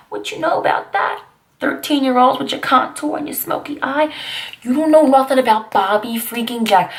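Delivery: high, breathy mock scolding of kids; sassy scolding. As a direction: sass the youngsters about their makeup. Mocking today's thirteen-year-olds.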